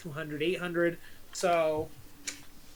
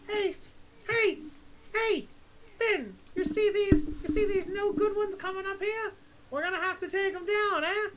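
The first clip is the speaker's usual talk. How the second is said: yelling across; 12 semitones higher than usual. Acted. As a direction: call out over the gap between ships, pitched way up. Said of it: "she yells over and goes".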